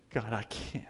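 breathy whisper of giving up; whispered plea. Acted. Preacher voicing a broken believer, whispered. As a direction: whisper it, defeated and spent.

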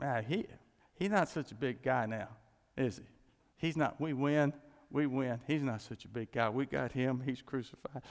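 gloating jeer, a touch hammed; mocking crowd. Preacher voicing the scoffers jeering at Jesus, mock gloating. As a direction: sneer it like a smug crowd.

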